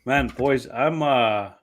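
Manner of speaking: yawning while talking; words stretched by a yawn. Real, not acted. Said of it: "Can tell you're yawning".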